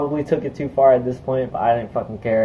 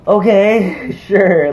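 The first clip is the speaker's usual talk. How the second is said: laughing; 7 semitones higher, 5 dB louder, much slower than usual. Retold or imitated. Amused reply to the warning.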